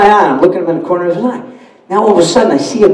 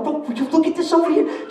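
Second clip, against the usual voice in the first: laughing aside; 9 semitones higher, 9 dB quieter than usual. Retold or imitated. Amazed aside to wife.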